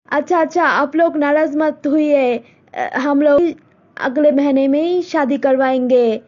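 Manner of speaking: mother telling daughter about a proposal; Malti's mother. Acted. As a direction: speak as a set-in-her-ways village mother. Mother gives in.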